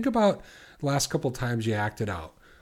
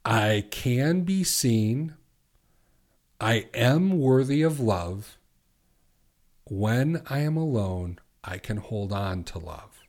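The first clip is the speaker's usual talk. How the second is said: slow, deliberate and a bit louder, each line set apart; measured, emphatic morning affirmation; 4 dB louder than usual. Shown as a demonstration. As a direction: state each truth slowly, like a vow to yourself. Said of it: "this is what you can say in the morning".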